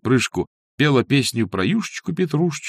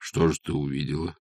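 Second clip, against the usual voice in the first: wary; 6 semitones lower than usual. A narrator's reading. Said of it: "насторожённо спросил он".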